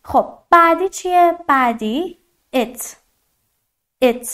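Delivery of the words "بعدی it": it with a short clipped i; it, short vowel not eat. Shown as a demonstration. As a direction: say it with a quick short i. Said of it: "یه کوتاهه".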